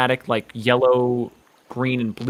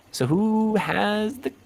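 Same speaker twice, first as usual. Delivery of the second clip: higher, softer and very slow, a cocky Richie; Richie's slow drawl; 6 semitones higher, 6 dB quieter, much slower than usual. Acted. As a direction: stretch every word out with a finger gun swagger. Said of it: "Richie pops a little finger gun and says".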